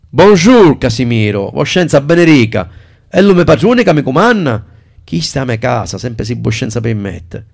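a Sicilian dialect voice, high and loud. Acted. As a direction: speak it in broad Sicilian dialect. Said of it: "ti sei messo a parlare in siciliano?". (dialetto siciliano)

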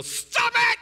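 high, explosive mock scream; acted yell. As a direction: yell it as if grabbing someone by the collar. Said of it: "and yell".

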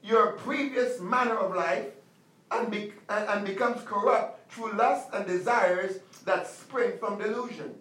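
measured preaching cadence. Acted. Pastor preaching to the congregation, measured sermon cadence. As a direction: expound the verse like a pastor. Preacher reading and expounding scripture.

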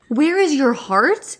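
slow, drawn-out mock sage; mock forest witch. Podcaster mocking the art teacher's monologue, mock forest witch. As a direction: lightly imitate a solemn old forest witch. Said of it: "acting like an old forest witch".

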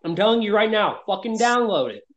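talking around a bite of food; chewing while speaking; mouth full. Real, not acted. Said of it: "Sorry, I'm eating while doing a podcast".

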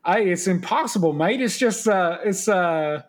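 bad Scottish accent, veering Australian; horrible Scottish accent. Retelling a Scottish rugby player's answer, in a bad Scottish accent. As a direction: attempt a Scottish accent and miss toward Australian. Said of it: "that was a horrible Scottish accent".

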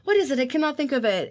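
high, strained mock searching; uncle struggling. Uncle can't recall her name, high strained voice. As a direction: act out the uncle straining to remember. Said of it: "And he's, like, doing this".

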